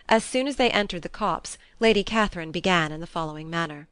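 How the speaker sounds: plain reading voice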